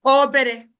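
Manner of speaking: Obere said slowly and clearly, o-be-re; teacher models obere syllable by syllable; Igbo word. Shown as a demonstration. Teacher models the Igbo word for small clearly. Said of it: "is called obere".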